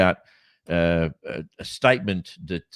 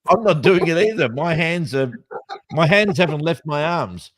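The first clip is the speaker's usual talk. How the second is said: surprised; 6 semitones higher, 5 dB louder than usual. Real, not acted. Denying touching the screen.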